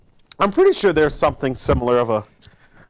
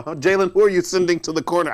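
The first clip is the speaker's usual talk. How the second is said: usual speaking voice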